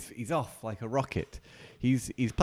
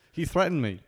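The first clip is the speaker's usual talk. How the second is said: laughing through the words; amused, laughing; 8 semitones higher, 5 dB louder than usual. Real, not acted. Joking about game character.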